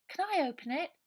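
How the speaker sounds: put-on a child begging to open the box; eager young child. A narrator's reading. Brian's voice.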